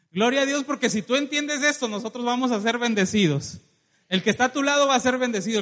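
loud, rousing proclamation; exultant preaching. Real, not acted. Preacher promises the congregation blessing, exultant loud proclamation. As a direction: proclaim blessing at full force.

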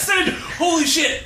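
sudden thrilled exclamation; excited outburst. Real, not acted. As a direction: blurt it out, delighted.

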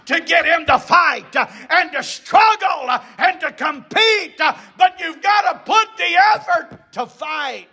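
rising, shouted preaching in punched phrases; impassioned preaching. Real, not acted. Preacher urging effort in the fight, impassioned preaching. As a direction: build the urgency phrase by phrase. Preacher builds to full force.

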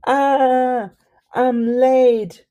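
loud high alarmed cry; panicked cry. Acted. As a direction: yelp it out in a panic. Croc realises she's late.

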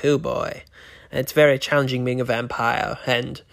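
Vincent the Vampire. Acted. Vampire host welcoming viewers to his segment, lightly voiced. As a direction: play a campy, morbid vampire hosting his show, mildly.

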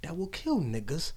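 slow, laughing, teary persona; Buki voice. Pretend. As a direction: let the spooky alter ego out. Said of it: "Let the spooky Buki come out".

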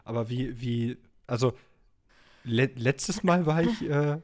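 stuck in a low put-on voice; disguised deep voice. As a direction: keep talking in the deep character voice. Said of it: "Komm wieder zurück, Vincent".

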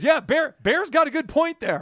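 imitating Jay. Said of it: "He goes".

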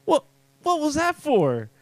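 high, crying complaint; whiny wail. Retold or imitated. Jewish guy in the joke after being punched, whining high. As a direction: whine it like a hurt victim. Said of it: "the Jewish guy's like".

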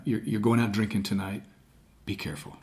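low, soft, grounded warning; deepest voice. Shown as a demonstration. Parent cautioning teenager going out drinking, low quiet authority. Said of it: "It's your deepest voice".

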